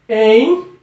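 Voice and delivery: "Empréstimo" broken into em, prés, ti, mo; long pause after each syllable of "Empréstimo". Shown as a demonstration. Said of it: "Vamos fazer a separação?". ("Empréstimo" separado em sílabas, com pausas longas)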